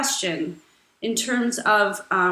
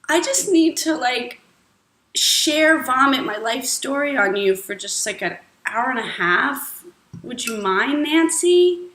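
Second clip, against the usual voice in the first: whiny friend. Acted. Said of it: "have your friend say".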